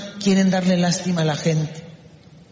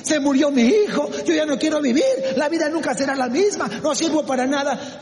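high-pitched acted despair of a bereaved parent; mock lament; 6 semitones higher, faster than usual. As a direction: imitate someone giving up on life. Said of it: "gente que lamenta". (desesperación imitada)

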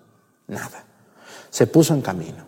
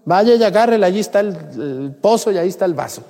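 hammed-up refusal, pitched way up; mock indignant village woman; 10 semitones higher than usual. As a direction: send him off in a put-on indignant woman's voice. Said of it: "Si hubiera sido algunas que conozco, le hubiera dicho".

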